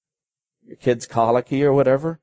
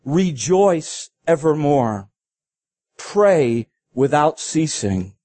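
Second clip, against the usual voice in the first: "Rejoice evermore. Pray without ceasing." drawn out slowly, each word weighted; slow solemn reading; much slower than usual. Shown as a demonstration. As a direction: read it like a scripture command, very slow. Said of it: "What you must do is this".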